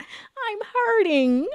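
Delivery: laughing mock wail. Joking to viewers about her friend's Saturn return, laughing high wail. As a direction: wail it like a joke sob, laughing through.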